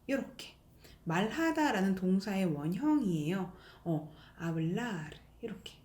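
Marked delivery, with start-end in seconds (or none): 4.4-5.1 slow "hablar" with a softened last r; "hablar" softly, with a faint final r; weak final r. Shown as a demonstration. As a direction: stretch "hablar" and let the r fade. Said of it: "약하게".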